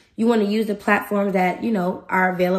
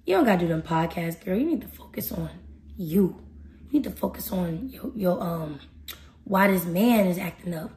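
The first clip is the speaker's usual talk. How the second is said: the devil; 3 semitones lower, 5 dB quieter than usual. Acted. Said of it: "the devil creep in like".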